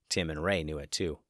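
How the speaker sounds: plain reading voice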